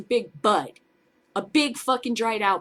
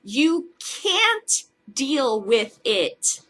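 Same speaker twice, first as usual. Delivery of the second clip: very slow, drawn-out taunt; 4 semitones higher, 4 dB louder, much slower than usual. Real, not acted. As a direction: stretch every word, mocking. Taunting the official.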